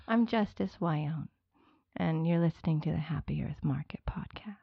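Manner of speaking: whispered intro. Shown as a demonstration. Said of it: "I need you to say your name".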